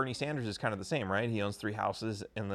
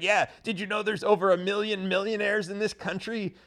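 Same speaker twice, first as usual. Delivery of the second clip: put-on higher, quoting an old grandpa; 7 semitones higher, 3 dB louder than usual. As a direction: play the rambling old grandpa. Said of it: "he's like".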